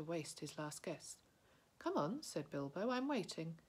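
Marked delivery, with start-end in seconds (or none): 1.8-3.6 bold and cheerful. Acted. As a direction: fake confidence you don't feel. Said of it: "tried to sound bold and cheerful".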